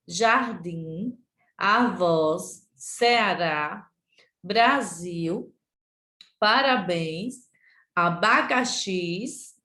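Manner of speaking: word-by-word classroom reading, last syllables drawn out; leitura em voz alta. Shown as a demonstration. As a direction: read each word separately and deliberately. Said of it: "abaixo em voz alta". (lista lida pausadamente, palavra por palavra)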